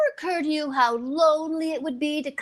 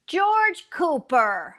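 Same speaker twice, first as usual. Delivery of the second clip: scolding; 4 semitones higher, much slower than usual. Acted. Wife scolding husband for surprise guest.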